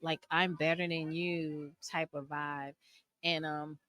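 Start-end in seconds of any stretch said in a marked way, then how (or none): 0.3-1.7 snooty. Retold or imitated. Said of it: "kinda like this whole".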